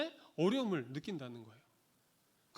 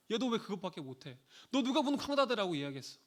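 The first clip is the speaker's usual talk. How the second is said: parent nagging; 4 semitones higher than usual. Retold or imitated. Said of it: "라고 아무리 백날 첫날 이야기해도".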